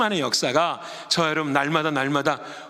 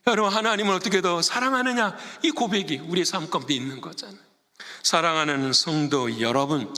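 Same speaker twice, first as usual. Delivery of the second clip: usual speaking voice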